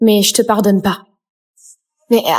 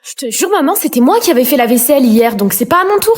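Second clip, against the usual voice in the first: indignant protest; 2 semitones higher than usual. Acted. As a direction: insist it's not your turn. Dispute avec maman. (protester auprès de maman, voix aiguë)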